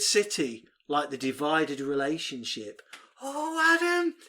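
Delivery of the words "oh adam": laughing. Real, not acted. Laughing at co-host.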